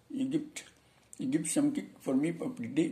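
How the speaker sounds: light mock Indian English accent. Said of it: "itu orang India".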